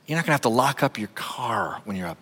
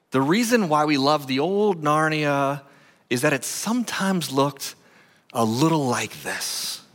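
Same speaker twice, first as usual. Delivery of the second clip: unicorn's homecoming; 3 semitones higher than usual. Acted. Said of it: "he says".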